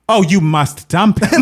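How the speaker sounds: slow, loud, laughing dump him; drawn-out sassy verdict through a laugh; mock sassy advice. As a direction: friend giving blunt advice, laughing. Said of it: "And I was like".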